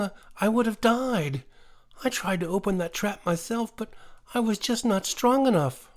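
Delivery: a small animal gushing thanks, voice pitched high; high-pitched grateful woodland creature; exclaiming little creature. A narrator's reading. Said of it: "he exclaimed".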